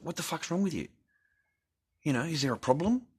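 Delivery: high, loud indignant squawk; hammed-up retold confrontation; mock angry yell. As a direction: fling the question back at her, high and loud. Retelling turning on his wife.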